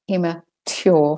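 "immature" with "tyoor" instead of "choor"; British "immature" with a true t; British t variant. Shown as a demonstration. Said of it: "make the t a t".

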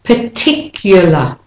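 particular as par-TIC-yuh-la, carefully; intrusive y. Shown as a demonstration. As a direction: put a y after the C in particular. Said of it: "you insert the intrusive y".

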